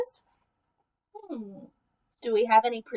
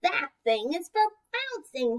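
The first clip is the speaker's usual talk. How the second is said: croaked; 3 semitones higher, slower than usual. Acted. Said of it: "he croaked".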